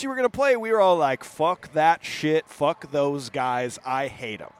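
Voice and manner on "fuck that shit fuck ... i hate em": slow, mock-grumpy staff voice; mock grumbling. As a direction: drag it out like a sulky rival. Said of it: "what Buddha told us".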